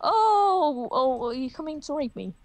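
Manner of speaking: mock fear. Mock panic.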